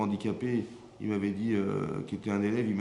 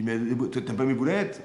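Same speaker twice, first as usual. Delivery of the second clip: vexed wife; 2 semitones higher, 5 dB louder than usual. Retold or imitated. Wife vexed over her meatballs.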